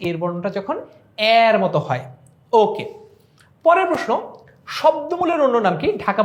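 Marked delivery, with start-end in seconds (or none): 0.1-2.0 এর মতো with এর stretched like cat's vowel; open æ. Shown as a demonstration. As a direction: say the এর before মতো as "ær". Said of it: "এ বর্ণের বিবৃত উচ্চারণ".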